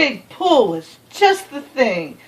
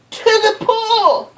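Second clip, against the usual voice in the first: put-on boy's yell; 11 semitones higher than usual. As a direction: shout it back, a little lighter. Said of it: "I yelled".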